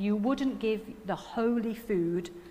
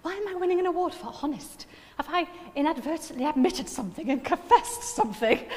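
panicky; 7 semitones higher than usual. Retold or imitated. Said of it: "I had a slight panic".

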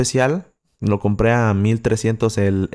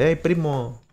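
soft, higher-pitched greeting, fading very quiet; casual off-mic greeting; 4 semitones higher, 7 dB quieter than usual. Shown as a demonstration. Streamer shows followers how he greets them in person, softly. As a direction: drop the volume, as if away from the mic. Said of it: "por fuera, me vas a escuchar diciéndote".

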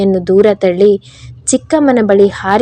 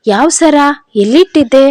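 feigned innocence; 6 semitones higher than usual. Acted. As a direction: play dumb as if you know nothing. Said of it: "ತನಗೇನು ಗೊತ್ತಿಲ್ಲ ಅನ್ನೋ ಥರ ನಟಿಸ್ತಾ". (ಏನೂ ಗೊತ್ತಿಲ್ಲದಂತೆ ನಟಿಸುವ ಧ್ವನಿ)

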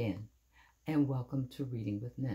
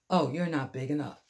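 dismissive brush-off; 6 dB louder than usual. Acted. Grouchy ladybug dismisses rival.

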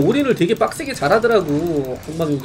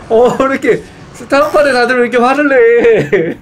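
loud, laughing exclamation, higher; laughing disbelief; 4 semitones higher, 6 dB louder than usual. Real, not acted. Streamer laughing at why StarCraft players get so angry, loud and amused. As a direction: blurt it out through laughter.

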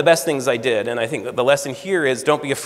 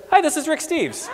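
higher, half-laughing imitation of a famous caller; Rick Steves impression; 13 semitones higher than usual. Rick Steves on the phone to a young job seeker, light imitation. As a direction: put on a cheery higher voice, laughing through it. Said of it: "The voice said".

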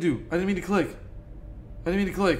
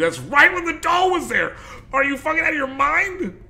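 much higher, loud shocked yelling; panicked outburst; 6 dB louder than usual. Real, not acted. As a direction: yell in frightened disbelief. Doll appeared during a scare.

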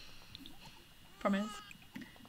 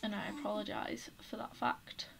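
whisper; 5 dB quieter than usual. Real, not acted. Whispered apology to viewers.

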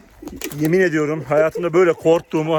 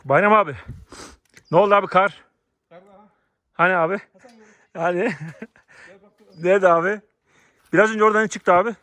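surprised; 5 semitones higher, 3 dB louder than usual. Real, not acted. Snow spot turns out empty.

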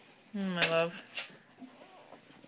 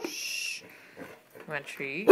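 slow, soft, coaxing question; 3 semitones lower, 13 dB quieter, slower than usual. Real, not acted. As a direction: coax the dog gently and slowly. Offering dog a treat.

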